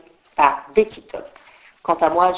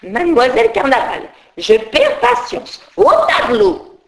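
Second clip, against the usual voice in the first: exasperated teacher; 4 semitones higher, 3 dB louder than usual. Acted. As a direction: drag out each word, then send her to the board. Teacher losing patience.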